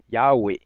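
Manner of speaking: Yahweh as Americans say it, YAH-weh; slow Yahweh with the first syllable stressed; American pronunciation. Retold or imitated. Imitating how North Americans say it, Yahweh as YAH-weh. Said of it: "Solamente los gringos".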